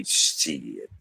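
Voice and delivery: low, dry dismissive "Shit"; dry scoff. Retold or imitated. Son brushing off the friends' praise, low and dry. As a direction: scoff it under your breath. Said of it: "And I would say".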